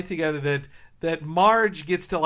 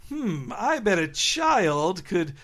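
lightly voiced cartoon schemer, drawn out; Duckman; slower than usual. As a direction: muse slowly, as if plotting aloud. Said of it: "Duckman steals a soda successfully".

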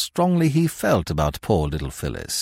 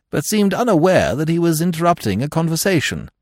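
ordinary delivery, nothing marked

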